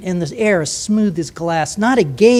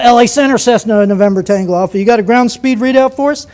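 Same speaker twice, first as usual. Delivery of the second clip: Cessna pilot on radio; 2 semitones higher, 3 dB louder than usual. Retold or imitated. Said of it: "Some Cessna guy has to know".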